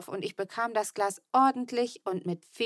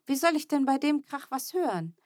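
higher, sharp scolding; 7 semitones higher than usual. A narrator's reading. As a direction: tell off the little brother. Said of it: "schimpfte ich".

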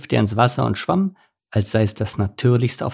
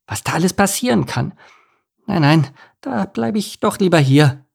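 high-pitched fretful little duckling; anxious youngster making excuses, pitched high; timid duckling, worrying; 7 semitones higher than usual. Acted. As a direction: pile up worries in a high child's voice. Voices anxious duckling Enno.

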